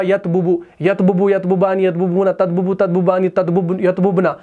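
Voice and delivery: यतबुबु with the tongue tripping on बु बु; stumbling tongue. Shown as a demonstration. Teacher showing students a halting conjugation. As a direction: stumble over the doubled ब. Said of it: "तो ज़ुबान जो है वो लड़खड़ा जा रही है".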